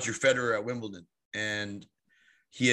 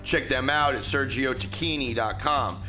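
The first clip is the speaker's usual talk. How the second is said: slushy lisp after oral surgery; s sounds smeared toward sh. Real, not acted. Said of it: "Excuse my lisp. I have had oral surgery".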